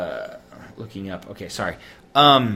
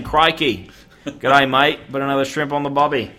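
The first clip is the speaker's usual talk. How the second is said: mock Australian accent. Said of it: "always turns Australian".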